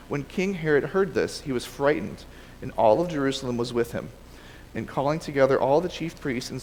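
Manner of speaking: measured read-aloud of a Bible story; reading from the page; scripture reading. Acted. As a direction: read the passage aloud to a class, phrase by phrase. Resumes reading the scripture passage.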